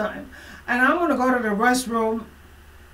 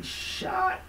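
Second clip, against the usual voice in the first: retold shout; 11 semitones higher than usual. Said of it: "she told me".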